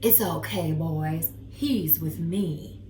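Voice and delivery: lightly voiced laid-back boss, slow; easy, in-charge reassurance; cool boss dog. Dog calming the bulldog bouncers, lightly boss-like. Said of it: "my dog walked over and said".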